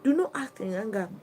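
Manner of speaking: "not" पर ज़ोर; firm on not. Shown as a demonstration. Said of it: "You must calm your nerves down".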